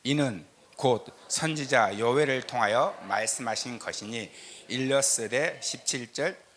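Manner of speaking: ordinary talk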